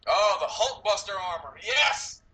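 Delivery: thrilled, pitch leaping up on the yes; real fan excitement. Real, not acted. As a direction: geek out, rising to a high-pitched cheer. Fan thrilled by the armor reveal.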